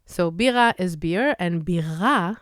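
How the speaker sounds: bira stressed on the second syllable, then on the first; shifted stress. Shown as a demonstration. Teacher showing how stress changes bira's meaning. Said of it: "only change the emphasis".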